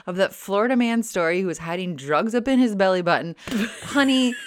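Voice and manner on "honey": laughing through a playful offer; giggling mid-line, teasing. Real, not acted. Teasing her cohost about belly-button storage, laughing.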